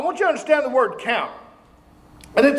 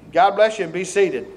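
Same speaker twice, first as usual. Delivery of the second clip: ordinary delivery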